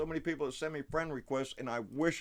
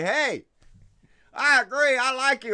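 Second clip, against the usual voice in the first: friendly hello; 10 semitones higher, 11 dB louder than usual. Retold or imitated. Models greeting a fellow member.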